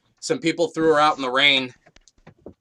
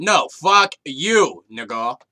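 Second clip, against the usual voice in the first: mock defiant message; 5 dB louder, much slower than usual. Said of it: "tell him I said".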